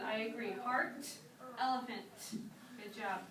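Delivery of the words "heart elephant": "Heart, elephant" with crisply released final Ts; final T emphasized. Shown as a demonstration. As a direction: make each closing T in "Heart, elephant" audible. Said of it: "with the T sound".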